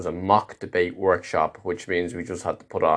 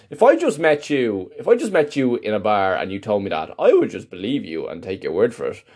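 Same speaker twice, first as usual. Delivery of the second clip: louder, higher mock anger, slowing at the end; mock retort; 5 semitones higher, 3 dB louder than usual. Imagined telling-off of the phony colleague, mock angry. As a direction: tell him off in your head.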